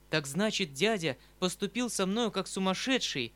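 громко, с досадой; выплеснуть раздражение голосом; вскрик досады. Acted. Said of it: "вскричала я в припадке нестерпимой досады". (громкий досадливый возглас)

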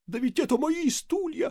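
high wailing moan. A narrator's reading. Desperate priest moaning about his chairs. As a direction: groan it out in despair. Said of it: "простонал отец Фёдор".

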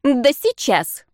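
slow, sarcastic put-down; mock-menacing comeback; stern retort. A narrator's reading. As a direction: drag out the scornful "Да сейчас". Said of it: "грозная Тиси".

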